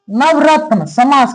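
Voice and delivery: नवरत्न drawn out slowly; slow repetition. Shown as a demonstration. Teacher slowing down on the example for students. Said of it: "teacher repeating example".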